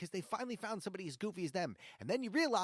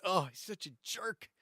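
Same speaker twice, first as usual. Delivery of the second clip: heated rant; 3 semitones higher than usual. Real, not acted. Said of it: "I got a little heated".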